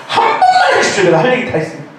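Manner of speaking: very high, loud laughing cry on 번만; frantic plea. Retold or imitated. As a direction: crank the begging to a shrieking peak on 번만. 간절한 기도 절정. (번만을 아주 높고 크게 외치며 간청)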